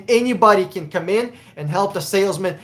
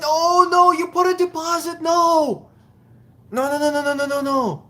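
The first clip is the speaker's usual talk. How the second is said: dismayed oh no; 9 semitones higher than usual. Real, not acted. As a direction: sound horrified at what he did. Dismay at viewer's deposit.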